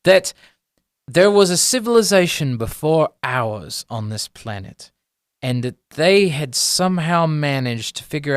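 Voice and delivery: measured, lightly theatrical academic exposition; mild professor voice, stretching key phrases; lecturing gnome professor. Acted. Gnome professor lectures on his theory.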